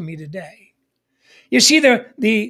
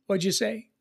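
put-on mumbled kid reply; 10 dB quieter than usual. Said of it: "And they say".

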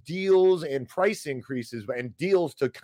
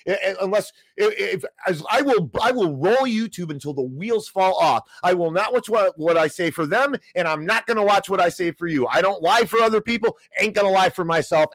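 angry rant; 4 semitones higher than usual. Real, not acted. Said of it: "End of that rant".

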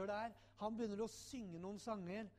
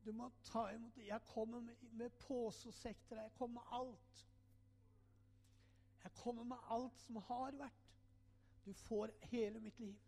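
higher, pleading prayer to Jesus; a man reliving his plea to Jesus, higher and earnest; retold prayer; 3 semitones higher, 4 dB quieter than usual. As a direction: lift the voice and surrender everything. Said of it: "Og så sier jeg".

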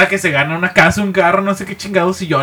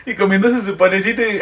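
ordinary delivery

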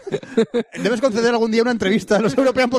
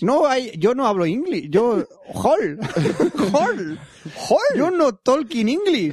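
mock broken English; 5 semitones higher, much slower than usual. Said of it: "no English".

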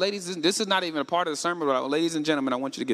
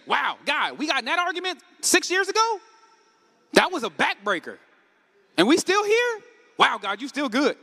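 praising astonishment, higher on the peaks; grateful wonder; 5 semitones higher than usual. Retold or imitated. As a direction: exclaim it like a man stunned by grace. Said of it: "You should say".

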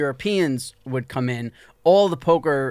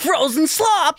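high put-on dog voice; Bean's original voice; 10 semitones higher, slower than usual. Dog describing its frozen slop dinner, high cartoon voice. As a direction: play the pet dog, pitched well up. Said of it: "The original voice was like".

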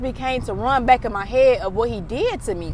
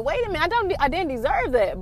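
sudden high-pitched realization, retold; surprised pushback; 6 semitones higher than usual. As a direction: snap out of it with a high wait a minute.

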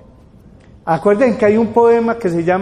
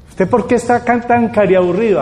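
pressing questioner; 4 semitones higher than usual. Retold or imitated. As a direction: demand an answer like a worried parent. Parent questions a depressed person.

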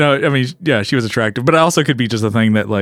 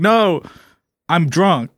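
put-on English accent; 5 semitones higher, much slower than usual. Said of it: "she was English".

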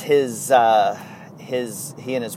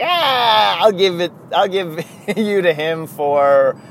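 imitating Derek Jeter; 4 semitones higher, 6 dB louder, slower than usual. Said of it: "Derek Jeter calls Brian Cashman and is like".

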